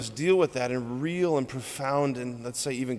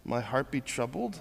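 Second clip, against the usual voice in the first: softly repeated verse; 5 dB quieter than usual. Shown as a demonstration. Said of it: "repeating this verse".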